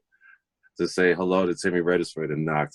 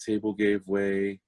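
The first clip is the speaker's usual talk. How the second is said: softer, relaxed no-big-deal tone; cool, easygoing reassurance; 5 dB quieter than usual. Retold or imitated. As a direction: shrug it off gently, man to man. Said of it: "he was so cool about it".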